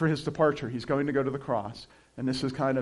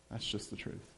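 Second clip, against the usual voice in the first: breathy whisper, much softer; whispered repeat; 6 semitones lower, 15 dB quieter than usual. Real, not acted. Pastor repeating the truth to the congregation, whispered. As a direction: let it drop to a whisper.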